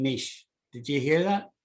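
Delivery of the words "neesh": "niche" said as "neesh"; long ee and soft sh in "niche"; echoed dictionary pronunciation. Shown as a demonstration. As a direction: rhyme "niche" with "quiche". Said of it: "He's saying niche".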